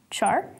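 "char" said as a syllable on its own; isolated first syllable. Shown as a demonstration. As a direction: say just "char", cut off from the rest of the word. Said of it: "break it up by syllable first".

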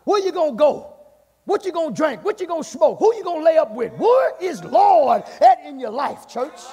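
forceful, rising preaching questions. Real, not acted. Preacher challenges church about who is Lord, forceful preaching. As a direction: press the church hard with each question.

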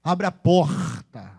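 slow, stretched guttural R in porta; drawn-out carioca porta; carioca accent. Shown as a demonstration. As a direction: exaggerate a Rio carioca R. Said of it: "O carioca fala um R bem puxado".

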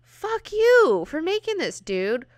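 high, loud mock-furious yelling; hammed-up outrage at Moira; angry mutants. Destiny and Mystique telling Moira off, mock-furious. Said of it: "they're like".

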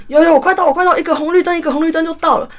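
reassuring the boss in a fluster; flustered reply. Retold or imitated. Courier flustered, assuring the boss she's one light away. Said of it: "然后我就说".

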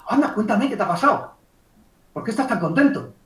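lively, interested reply; matching happy emotion. Acted. Coach asking a happy client for news, mildly excited. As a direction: share a touch of the client's joy. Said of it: "Estoy igualando la emoción".

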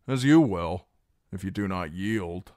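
high, loud and commanding; loud threatening ultimatum. Acted. Reek pressing the garrison to surrender, loud and high. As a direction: push them to yield.

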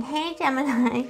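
a sleazy ex sliding back in, lightly voiced; mock smarmy greeting from a jerk; douche flute voice. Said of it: "that's how a douche flute talks".

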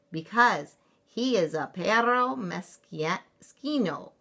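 slow, emphatic storybook declaration; declaring. Acted. Chihuahua leader explaining the bully, declaring. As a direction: declare it with drawn-out Spanish words. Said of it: "declared Don Diego".

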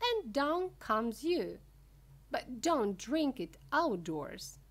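high, emphatic showman storytelling; Mister Wonka, animated. Acted. Wonka recounting the Oompa Loompa's flight, high and animated.

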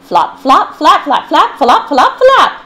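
high, loud, laughing flop and clap; playful sound words. Acted. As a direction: bounce through them with giggles. Lively reading of flop and clap sounds.

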